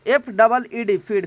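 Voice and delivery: spelled slowly then "फीड" said as English feed; slow spelling. Shown as a demonstration. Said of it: "फीड का मतलब होता है". (धीमी वर्तनी)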